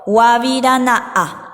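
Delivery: guavirana'a said slowly, each syllable clear, final a'a stretched; slow model for repeating. Shown as a demonstration. Teacher to students modelling the word, slowly. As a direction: draw out guavirana'a slowly for the class. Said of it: "digan de nuevo".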